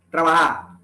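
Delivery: TRABAJA with J as H, final R dropped; soft aspirated J. Shown as a demonstration. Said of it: "se pronuncia con una aspiración suave".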